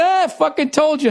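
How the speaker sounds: a hint of a smug guide; deadpan tour guide. Tour guide repeats it to the tourist, dry. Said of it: "He goes".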